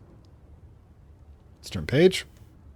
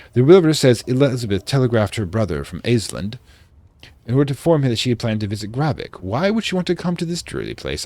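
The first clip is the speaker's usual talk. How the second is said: put-on light British accent for a diary entry; reading a diary in a mild British accent; vaguely British accent; 3 semitones higher, 3 dB louder than usual. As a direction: read it like a 1920s English diarist. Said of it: "I'm doing a vaguely British accent".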